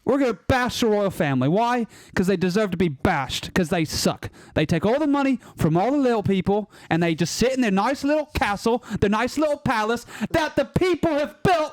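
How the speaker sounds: hammed-up amateur British accent; committed British accent. Shown as a demonstration. Panelist bashing the royal family on a dare, committed British accent. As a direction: rant in a rough mock British accent. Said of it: "commitment to the British accent".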